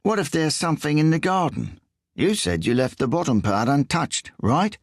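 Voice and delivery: high, whiny English voice; whiny Englishman. A narrator's reading. English thief quizzes Riso in a high whiny voice. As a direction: push it up into a whine.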